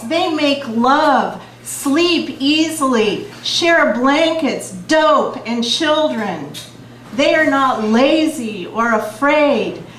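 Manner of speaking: slow, emphatic chant-like poem reading; beat poetry. Acted. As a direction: hammer the refrain, slow and strong. Reads Revolutionary Letter poem.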